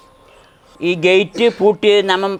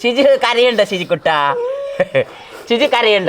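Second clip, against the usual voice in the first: consoling; 5 semitones higher than usual. Real, not acted. Uncle to crying boy, consoling. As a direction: soothe him with a lifted, sing-song pitch.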